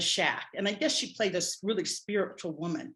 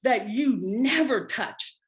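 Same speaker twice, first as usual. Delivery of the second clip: loud, slow, emphatic disbelief; affronted, weighty rebuke; indignant; 3 semitones higher, 6 dB louder than usual. Retold or imitated. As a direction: spell out the unbroken rule, word by word. Indignant inner rebuke after hair touched.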